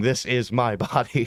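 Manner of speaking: put-on very slow, drawn-out half-scream. Retelling Luther standing up among the reformers: imitating Luther screaming. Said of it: "and just screaming".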